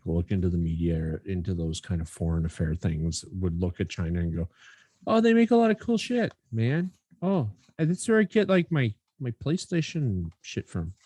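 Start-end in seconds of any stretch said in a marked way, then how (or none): 5.1-10.9 much higher, put-on South African accent, hammed-up; a jokey imitation of an average guy in a South African accent; mock South African accent. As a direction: play a clueless fan in a silly South African accent. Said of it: "It was more South African".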